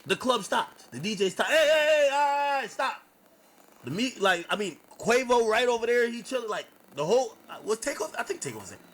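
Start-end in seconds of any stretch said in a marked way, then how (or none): 1.5-3.0 high, loud call to stop the music. Retold or imitated. DJ on the mic stopping the party, a high loud call.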